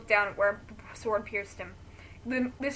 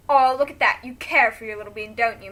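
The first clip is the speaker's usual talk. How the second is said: mock pout; 10 dB louder than usual. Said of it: "Maxler fakes pouts".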